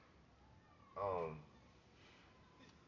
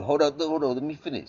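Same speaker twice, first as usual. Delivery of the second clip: louder, higher, cutting in; insistent; 6 semitones higher, 10 dB louder than usual. Real, not acted. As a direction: hold the floor, talk over them. Cutting off an interruption.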